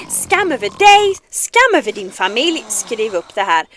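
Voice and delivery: loud, dramatic Mushu shaming chant; mock Swedish curse. Streamer curses the game character, loud mock Swedish curse. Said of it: "it's the Mulan speech of Mushu".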